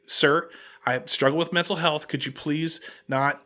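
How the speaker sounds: retold quiet, polite pleading; soft plea. Hotel employee pleading with an aggressive customer, soft.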